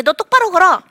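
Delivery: sharp, loud, high command; a scolding parent snapping at a limping child; mock parental order. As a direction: bark it like a nagging parent.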